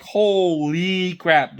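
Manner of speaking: long drawn-out, slow amazement; amazed. Retold or imitated. Reacting to Cut's narrow escape, drawn-out amazement. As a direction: stretch it out in disbelief.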